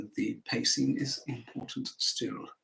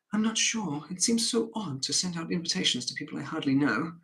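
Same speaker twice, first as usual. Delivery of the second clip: hesitant, higher-pitched protest; unsure wife; 4 semitones higher than usual. Acted. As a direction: voice her doubts in a raised pitch.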